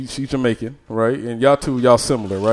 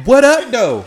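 "What up, though?" higher and louder, nearly Detroit; attempted Detroit greeting; 9 semitones higher, 6 dB louder, slower than usual. Shown as a demonstration. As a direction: close try at the Detroit greeting. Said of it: "Oh, close".

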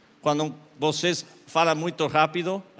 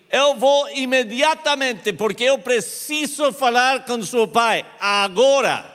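urgent excitement; 10 semitones higher, 7 dB louder than usual. Retold or imitated. Rushing to see dying father.

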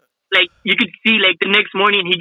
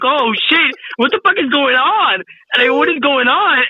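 retold shock; 5 semitones higher than usual. Retold shock at overheard talk.

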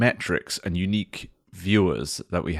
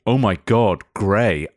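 mock outrage; 4 dB louder, slower than usual. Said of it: "should have responded with".

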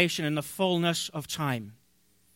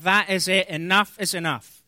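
furious; 4 dB louder than usual. Retold or imitated. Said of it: "unbelievably furious".

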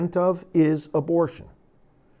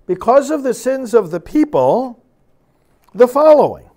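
rising intensity; 6 semitones higher, 6 dB louder than usual. Real, not acted. Building toward God's angry words.

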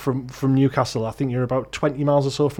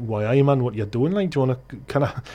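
lightly put-on Geordie demonstration; Geordie accent. Shown as a demonstration. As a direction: lilt it like a Geordie bloke. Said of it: "so a Geordie accent is like".

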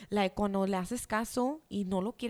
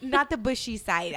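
laughing; 3 semitones higher, 6 dB louder than usual. Real, not acted. Laughing at friend's mishearing.

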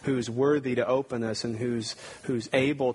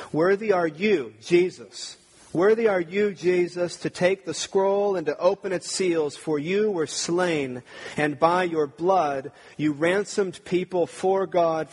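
higher, louder and slower, every line ringing out; fervent proclamation; 5 semitones higher, 4 dB louder, slower than usual. Shown as a demonstration. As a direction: proclaim "Worthy are you, Jesus" like a rising hymn of praise. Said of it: "Let me read that song again".

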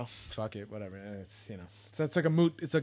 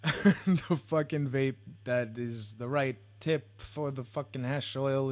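slow, higher and louder, laughing through it; 4 semitones higher, 4 dB louder, slower than usual. Real, not acted. Vlogger laughing that the vape is in the car, giggling. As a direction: laugh at your own bad luck.

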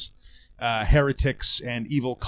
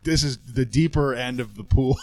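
laughing. Real, not acted. Laughing warning to co-host.

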